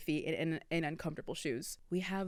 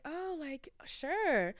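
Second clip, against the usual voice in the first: coy acceptance; 9 semitones higher, much slower than usual. Retold or imitated. Coy reply to dance invitation.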